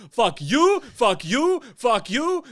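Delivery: shouted high and loud, over and over; a mock tantrum shout; imitated yelling. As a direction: bark it at everyone on the way out. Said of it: "he's just yelling at people".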